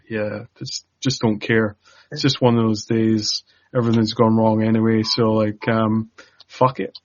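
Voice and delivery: acted resignation after a long exhale; weary nonchalance. Co-host imagines Sarah smoking on the steps, wearily indifferent. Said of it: "sitting on the steps, just like".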